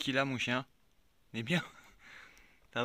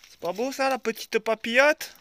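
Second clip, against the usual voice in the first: put-on southern French accent; 5 semitones higher, 6 dB louder than usual. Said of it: "je prends l'accent du sud".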